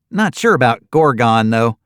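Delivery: put-on cheerful young desk clerk greeting guests. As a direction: chirp it out like a perky receptionist.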